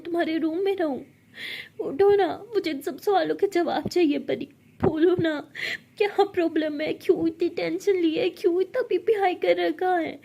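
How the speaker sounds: urgent pleading. Acted. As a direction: demand answers, near tears. Friend begs Pari to wake. (घबराकर ज़ोर से पुकारना)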